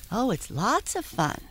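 high cheerful pony voice; bubbly little pony; talking pony. Acted. Falsetto novelty-singer voice.

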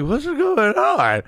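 high, slow, bewildered; confused drugged patient. Retold or imitated. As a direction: ask it slow and high, totally out of it. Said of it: "I'm just like".

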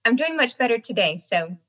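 talking out of the side of the mouth; out of mouth corner. Real, not acted. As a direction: speak from one side of the mouth. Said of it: "I'm only talking out of the side of my mouth".

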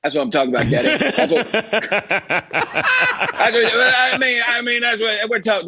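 breath-held Bruce Arians coach voice; Bruce Arians impression. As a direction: talk like you're holding your breath. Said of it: "how quickly I can turn into B A".

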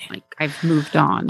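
whispered. Acted. Voicing Boba in a whisper.

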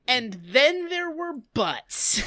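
slow, gentle storybook read; bedtime story reading. Retold or imitated. A lightly voiced bedtime storyteller reading to kids. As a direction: read it like a children's tale. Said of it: "like he's reading a bedtime story".

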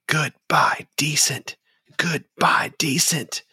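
high-pitched crowd chant; jeering townspeople. Acted. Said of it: "and people keep saying".

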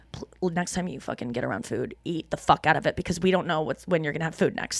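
low, quiet primal brain voice; caveman brain voice. Retold or imitated. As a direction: growl it like a hungry caveman. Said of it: "So that brain is going".

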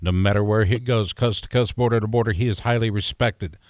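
lightly put-on radio announcer intro, low and measured; radio guy. Real, not acted. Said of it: "you sound like a radio guy".

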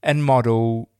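Geordie accent impression. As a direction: mimic a young Newcastle woman introducing herself, slowly. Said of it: "trying to master is a Geordie accent".

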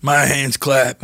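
"My hands clap" in slow, careful imitation; accent practice. Shown as a demonstration. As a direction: slowly repeat "My hands clap". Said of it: "help me with my accent".

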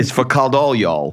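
lightly hammed Southern accent; Southern accent joke for the wife. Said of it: "if you say it with a Southern accent".

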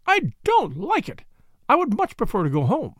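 high wail rising on don't; a high, frightened plea to be let go. A narrator's reading. Mrs Ackroyd begging Poirot to let her go home, high and wailing. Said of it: "she wailed".

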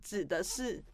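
with hiccups. Real, not acted. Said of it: "又打嗝".

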